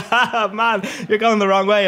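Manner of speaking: high-pitched mock Scouse; Scouse accent. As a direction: imitate a Scouser, laughing into it. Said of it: "That's a beautiful Scouse accent right there".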